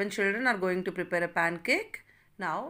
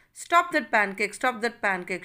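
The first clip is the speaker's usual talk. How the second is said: shouting. Acted. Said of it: "shouted mother".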